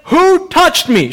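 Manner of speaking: high, drawn-out challenge; calling out. Acted. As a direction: demand it of a whole crowd. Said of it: "turns around and says".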